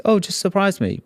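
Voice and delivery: high mocking voice; husband mimicking wife's snack request; mocking impression. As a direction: parrot her flippantly. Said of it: "why people do this".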